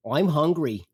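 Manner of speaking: high, whiny mock complaint; complaining mother. Mother in the back seat on a road trip, complaining. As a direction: imitate a mother nagging about her hunger. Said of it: "complaining the whole time".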